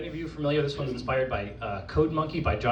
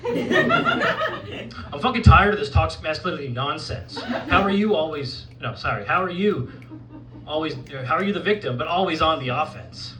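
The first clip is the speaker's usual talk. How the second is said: lightly played, fed-up dude bro, pitched up; 2 semitones higher, 4 dB louder than usual. Poet calling out toxic masculinity, as dude bro. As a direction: channel an exasperated bro, lightly hammed-up. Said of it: "channel your inner dude bro".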